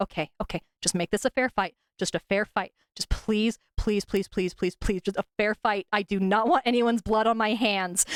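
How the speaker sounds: mock muttering under the breath. Retelling how she passed a knife over the powder, imitating her muttering. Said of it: "she's just kind of muttering like".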